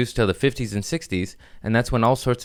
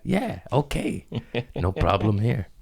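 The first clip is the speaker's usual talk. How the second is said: eager reply; 4 dB quieter than usual. Retold or imitated. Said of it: "imagined eager reply to hooker".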